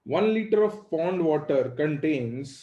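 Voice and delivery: slow, word by word for copying; slow dictation. Shown as a demonstration. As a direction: dictate it slowly so they can write. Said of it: "लिखो". (धीरे धीरे लिखवाना)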